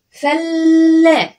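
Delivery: فلا stretched very slowly, held high; slow drawn-out fala. Shown as a demonstration. Teacher stretching فلا for the pupil. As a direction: draw out فلا syllable by syllable. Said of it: "وقفت عند اللام مرتين".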